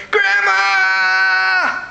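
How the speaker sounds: high, drawn-out wailing call; imitating an urgent grandchild, hammed up; mock excited. Nephew teasing his anxious grandmother, mock excited. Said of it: "as long as the tone was excited".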